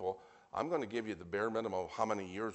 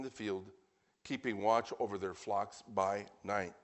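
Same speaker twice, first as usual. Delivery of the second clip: projected, measured Bible reading; scripture reading; 4 dB louder than usual. Real, not acted. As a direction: read the verses out to the congregation. Reads scripture aloud to congregation.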